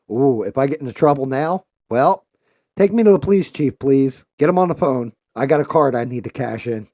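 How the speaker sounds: high, loud and eager, cashing in a favour; hammed-up begging to see the police chief; mock excited plea.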